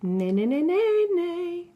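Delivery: lightly voiced horse whinny. Storybook dog who whinnies like a horse, mild neigh. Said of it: "why do we whinny like horses".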